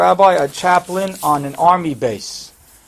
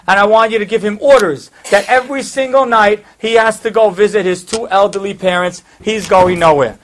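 raised, firm voice of acted authority; commanding; 4 semitones higher, 5 dB louder than usual. General ordering colonel to base private near parents, commanding. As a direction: rap out orders as the retold general.

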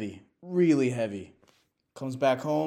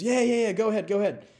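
much higher and louder, urging; eager rooster; 10 semitones higher, 5 dB louder, faster than usual. Retold or imitated. Rooster encouraging the new chicken, higher and louder. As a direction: cheer him on, quick.

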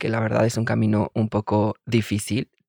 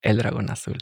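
sultry narrator; 3 dB quieter than usual. Acted. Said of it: "Pero así con voz sensual al micrófono".

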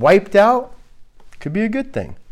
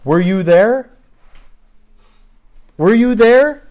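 a hint of Ken Ham, pushing higher; Ken Ham impression; 5 semitones higher, 4 dB louder than usual. Preacher quoting Ken Ham to the congregation, insistent. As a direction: press the question harder each time. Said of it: "As Ken Ham would say".

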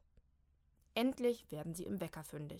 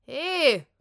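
high, very loud shout; 7 semitones higher, 16 dB louder than usual. Acted. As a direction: call down in alarm. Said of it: "ruft Molly von oben". (laut rufen)

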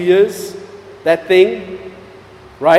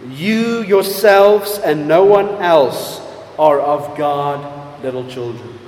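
tender; 3 semitones lower than usual. Retold or imitated. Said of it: "He says tenderly".

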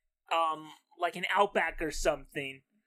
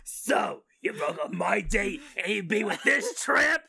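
jealous outburst; 4 dB louder than usual. Acted. Jilted woman confronts date.

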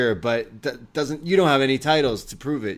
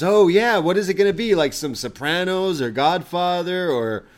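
imitating Bron, higher and louder with excitement; excited mock quote; 6 semitones higher, 6 dB louder than usual. Bron rattling off movie references to Tony, mock excited. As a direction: retell Bron's eager gangster-movie rambling with a lift. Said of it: "And Bron says".

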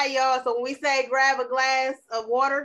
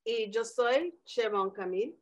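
Spanish name intro, lightly accented; Spanish self-intro; 3 dB quieter than usual. Shown as a demonstration. Podcast sign-off, introducing herself in Spanish, light Spanish accent. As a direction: say it in Spanish with a rolling lilt. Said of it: "Je m'appelle who?".

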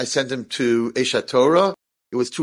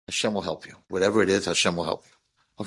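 reassuring; 5 semitones lower, 4 dB quieter than usual. Retold or imitated. Reassuring nervous young man.

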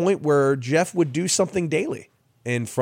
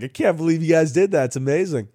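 retold amazement, voice a bit raised; amazed; 5 semitones higher, 3 dB louder than usual. Pranked player praising the pranksters, amazed. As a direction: mildly imitate a delighted, disbelieving friend. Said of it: "he was just so amazed".

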